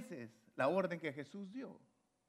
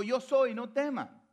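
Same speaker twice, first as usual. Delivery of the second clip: raised, high proclamation; voice meant to be heard; 7 semitones higher, 5 dB louder, slower than usual. Retold or imitated. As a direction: imitate announcing yourself loudly to reassure. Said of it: "Les habló con su voz para que lo escucharan".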